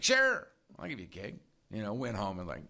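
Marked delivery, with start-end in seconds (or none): 0.0-1.4 higher-pitched, offhand acted yes; playing it off. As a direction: toss it off as no big deal. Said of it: "played it off".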